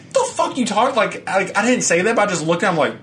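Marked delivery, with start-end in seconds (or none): 0.1-1.0 incredulous. Retold or imitated. Retold reaction to neighbor.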